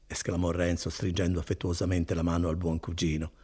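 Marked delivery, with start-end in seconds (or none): none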